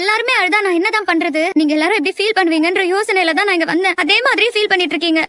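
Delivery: worked up and hurt; upset pleading. Acted. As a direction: plead with a tearful family. Upset at family all crying.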